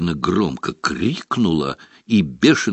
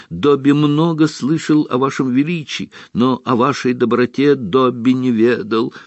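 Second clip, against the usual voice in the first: house elf voice; 6 semitones higher than usual. Acted. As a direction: speak as a meek house elf. Dobby speaks.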